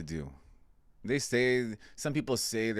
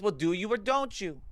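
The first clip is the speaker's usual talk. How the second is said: put-on old lady voice; 11 semitones higher than usual. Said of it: "old decrepit lady".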